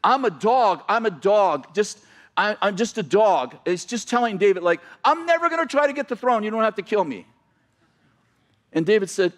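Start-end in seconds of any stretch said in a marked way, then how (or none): 0.0-3.6 begging. Retold or imitated. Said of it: "he starts begging for his life". 5.0-7.2 pleading. Retold or imitated. Mephibosheth pleads with King David.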